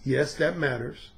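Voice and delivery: low, soft, slow seductive purr; smooth seductive voice. Shown as a demonstration. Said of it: "using a smooth and seductive voice".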